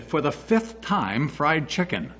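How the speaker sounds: exasperated. Retold or imitated. Wife answering husband's fifth call, exasperated and slow. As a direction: spell it out slowly as if tired of repeating.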